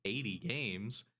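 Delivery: slow, doubtful question; disbelieving. Retold or imitated. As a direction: let the letdown sink in. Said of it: "I'm like".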